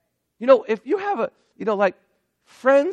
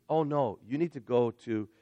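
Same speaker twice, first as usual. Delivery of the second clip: mock Jesus; 8 semitones lower, 5 dB quieter than usual. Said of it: "Jesus says".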